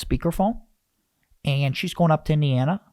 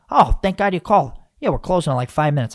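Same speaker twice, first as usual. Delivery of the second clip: higher, louder, relieved worker; relieved pizza worker; 3 semitones higher, 5 dB louder than usual. Retold or imitated. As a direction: sigh of relief, closing soon. Pizza worker voiced in story.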